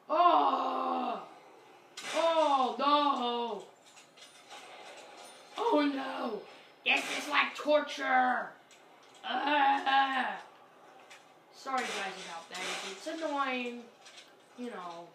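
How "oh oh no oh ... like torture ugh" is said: loud panicked oh no; panicked cries. Real, not acted. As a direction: cry out as the zombies close in. Swarmed by zombies, distress.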